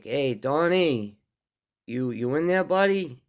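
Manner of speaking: calling a friend's name through a glass door, unsure. Retold or imitated. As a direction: call out to check if he's in there.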